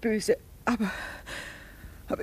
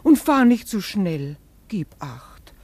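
louder, pleading worry; anxious warning; 2 semitones higher, 7 dB louder than usual. Acted. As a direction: press the warning on your son. Anxious mother warns son. (laute, ängstliche Mahnung)

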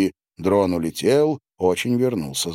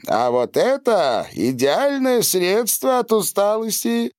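eager salesman; 13 semitones higher than usual. Acted. Dealer pitching new drug.

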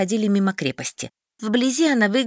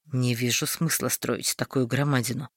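low, soft grumbling mutter; muttering under his breath; 8 semitones lower, 5 dB quieter than usual. Acted. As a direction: mutter it to yourself. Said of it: "пробормотал себе под нос Дарвальд".

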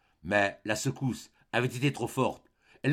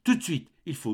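higher, urgent first try; frightened plea; 5 semitones higher than usual. A narrator's reading. Mother urging her son to act now, frightened. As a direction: press him, already scared.

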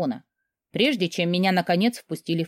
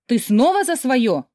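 flaring up; 5 semitones higher, 4 dB louder, slower than usual. A narrator's reading. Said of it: "вспылила была я".

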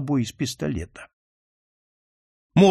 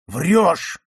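terrible shout; 3 semitones higher, 4 dB louder than usual. Acted. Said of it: "прокричал граф ... страшным голосом".

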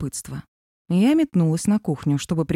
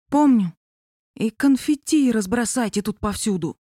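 loud whisper; 4 semitones higher than usual. Acted. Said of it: "напомнил Аркаша громким шёпотом".

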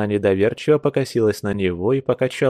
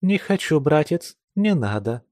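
ironic; 5 semitones higher than usual. Acted. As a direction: echo grandma's words with irony. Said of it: "с иронией повторять". (с иронией повторяя)

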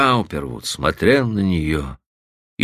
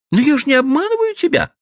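a hint of a tired girl, high and fast; weary repetition; faster than usual. Stephanie tiredly repeats to Frank, lightly voiced. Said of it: "повторила она устало".

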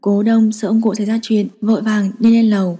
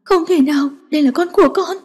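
higher, tearful protest; trembling voice; 7 semitones higher than usual. A narrator's reading. Granddaughter tearfully refusing to give up her baby, high and trembling. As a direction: plead through rising tears, pitch up. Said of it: "run run cất giọng".

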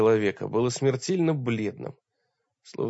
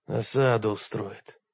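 hoarse; 3 semitones lower than usual. Acted. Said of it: "прохрипел мрак".

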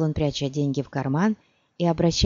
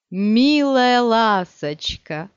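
slow, higher, beaming; relieved poet speaking fondly of the duchess; smiling fondly; 4 semitones higher, 4 dB louder, much slower than usual. A narrator's reading. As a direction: say it with a broad smile. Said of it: "широко улыбаясь".

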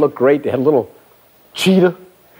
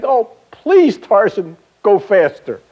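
put-on pleading kid; 6 semitones higher, slower than usual. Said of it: "you would think this little kid would say".

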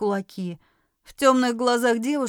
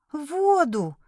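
glum; 4 semitones higher than usual. Acted. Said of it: "уныло повторила Ви".

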